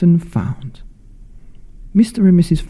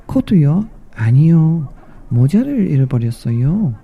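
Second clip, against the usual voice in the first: high then fast insistent mouse; mouse correcting; 3 semitones higher, much faster than usual. Acted. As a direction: squeak no, then rattle it off.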